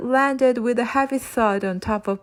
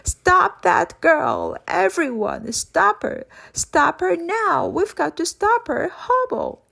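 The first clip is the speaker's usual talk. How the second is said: high, loud, rising bellowed orders; villain bellowing at the inmates to stop the girl; booming shouts; 9 semitones higher, 3 dB louder, slower than usual. Acted. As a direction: roar at the whole hall to stop her. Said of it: "voice was now booming".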